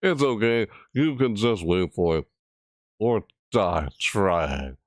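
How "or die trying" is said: slow spooky read. Pretend. Rereads spooky line.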